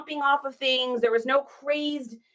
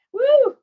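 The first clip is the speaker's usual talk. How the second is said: high-pitched exhaled woo; emotional whoop; 13 semitones higher, 6 dB louder than usual. Real, not acted. Trying not to get in her feels, a high woo. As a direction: let out a high, loud woo to shake off feeling. Fighting back emotion on live.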